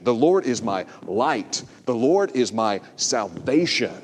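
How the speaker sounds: each word weighed, slowly; meditative slow emphasis. Shown as a demonstration. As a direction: dwell on every word. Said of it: "emphasize each word of it".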